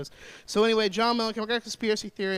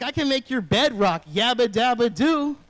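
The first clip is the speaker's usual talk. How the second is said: mock pickup line; 4 semitones higher, 9 dB louder, slower than usual. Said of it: "I was like".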